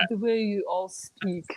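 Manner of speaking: hushed whisper; unvoiced confiding whisper. Real, not acted. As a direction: breathe it out in a whisper. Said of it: "whispered aside".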